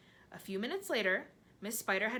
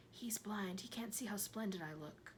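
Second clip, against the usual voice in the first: softer secret aside; whispering; 3 semitones higher, 6 dB quieter than usual. A narrator's reading. Centipede murmurs softly into James' ear. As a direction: lean in and murmur it close. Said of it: "whispering in James' ear".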